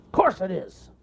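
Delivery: high, loud bear voice; smug self-answer; cartoon bear, pleased.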